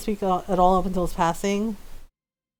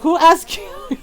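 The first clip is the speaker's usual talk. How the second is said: mom's indignant scold; 9 semitones higher, 6 dB louder, slower than usual. Retold or imitated. Mom scolding tita retold.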